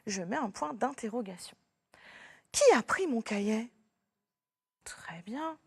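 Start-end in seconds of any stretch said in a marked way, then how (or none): 2.5-3.7 annoyed question. Shown as a demonstration. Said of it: "Je pose une question".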